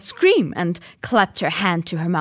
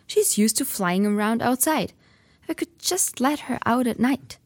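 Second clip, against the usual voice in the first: put-on boy's voice; 5 semitones higher than usual. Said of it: "he said".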